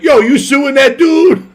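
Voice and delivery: high, loud, drawn-out mock holler; slow shouted impression of a comic; imagined comedian. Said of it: "he would've been like".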